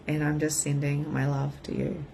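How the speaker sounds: ordinary delivery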